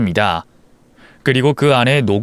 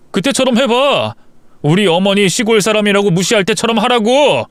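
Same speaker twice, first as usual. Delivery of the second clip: furious husband; 8 semitones higher than usual. Acted. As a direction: throw her own contempt back at her, raging. Husband furious at lying wife.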